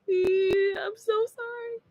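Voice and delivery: very high, small mock whimper; about to cry. Imitating herself after the elbow, on the verge of mock tears. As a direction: squeak it out like a hurt kid about to cry. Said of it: "I was like that".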